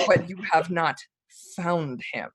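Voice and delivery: lightly voiced, measured menace; soft-spoken dark lord. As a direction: let it sink softly after a pause. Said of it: "he speaks softly".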